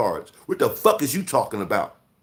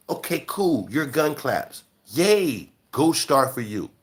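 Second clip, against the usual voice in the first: sarcastic praise; slower than usual. Acted. Mocking a gun-clap brag.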